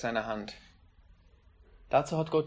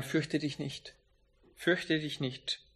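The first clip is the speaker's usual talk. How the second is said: gentle reassurance; 6 dB quieter, slower than usual. Acted. God's comforting words quoted softly.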